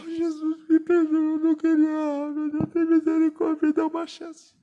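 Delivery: high, pleading cry to Jesus; tearful pleading prayer. Retold or imitated. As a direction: beg God for mercy, voice near tears. Crying to Jesus after sinning.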